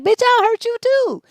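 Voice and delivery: high, loud mock threat; retold threat. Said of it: "I'm like".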